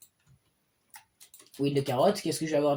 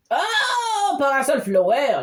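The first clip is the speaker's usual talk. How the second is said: excited squeal; 5 semitones higher, much slower than usual. Real, not acted. Excited at a rare flower pull.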